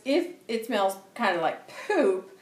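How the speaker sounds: laughing. Real, not acted. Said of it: "Sorry, I'm laughing".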